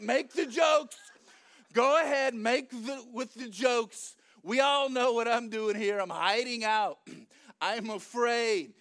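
exasperated rant. Acted. Gideon's acted rant at angel.

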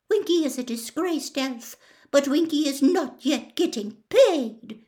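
high, indignant little elf voice; squeaked. Acted. Winky, furious, answers Hermione about pay, squeaking. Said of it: "she squeaked".

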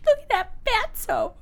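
high, put-on creepy child voice; hammed-up scary little character. Mocking friend as a fatso, scary voice. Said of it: "in that scary voice".

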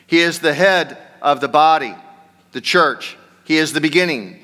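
firm, projected Bible reading; scripture reading. Acted. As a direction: read the verse out clearly to the congregation. Reads scripture aloud to congregation.

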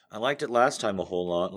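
excited. Real, not acted. Excited intro of the segment.

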